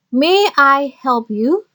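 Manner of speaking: slow, careful teacher model of the phrase. Shown as a demonstration. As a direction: say it slowly for learners to copy. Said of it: "kalian bisa menggunakan kata-kata". (diucapkan pelan sebagai contoh)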